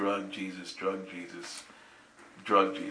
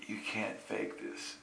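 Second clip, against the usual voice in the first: hushed whisper; 14 dB quieter, slower than usual. Retold or imitated. Girl quoted, barely audible.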